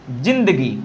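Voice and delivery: जिंदगी read with plain j. Shown as a demonstration. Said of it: "इसको अगर हम पढ़ना चाहें".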